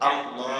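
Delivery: "আল্লাহ" with a long last vowel closing on h; audible final h. Shown as a demonstration. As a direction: finish "আল্লাহ" on a clear breathed h. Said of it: "এই শেষের হা". ("আল্লাহ" শেষের হা স্পষ্ট করে উচ্চারণ)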